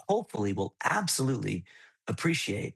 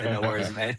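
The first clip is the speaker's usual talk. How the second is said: 1 adopted British phrase; 2 semitones lower than usual. Retold or imitated. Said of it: "I still say".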